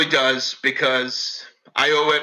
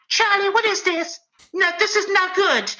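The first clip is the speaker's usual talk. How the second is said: much higher whispered mother voice; imitating his mother. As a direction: whisper it as his shocked mom. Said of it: "my mother doesn't talk like me".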